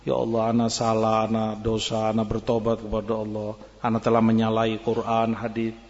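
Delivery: mild imitation of a sinner weeping to God; tearful repentance. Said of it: "dia nangis".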